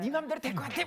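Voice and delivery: high-pitched mocking imitation of a parent; scoffing retort. Parent doubting the lecturer's advice, high mocking retort. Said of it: "부모님들은 피식하고 웃으세요".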